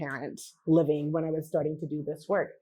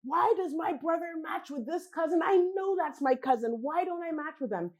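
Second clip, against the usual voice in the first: puzzled, higher; 8 semitones higher than usual. Retold or imitated. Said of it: "they're like".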